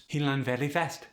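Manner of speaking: Khmer accent, final consonants dropped; Khmer-accented, R softened and endings cut. Shown as a demonstration. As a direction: drop word endings, Khmer style. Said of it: "when consonants are dropped".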